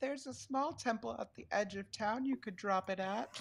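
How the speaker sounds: meek, timid, high shopkeeper voice. Game master voicing a shopkeeper answering a player, in a timid shopkeeper voice. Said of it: "very timidly speak up and say".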